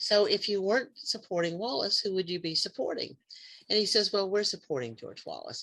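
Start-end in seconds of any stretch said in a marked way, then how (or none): 0.0-3.2 put-on sweet, high little fifteen-year-old voice. Retelling questioning a Wallace supporter, in a put-on sweet fifteen-year-old voice. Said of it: "in my sweet little fifteen year old voice".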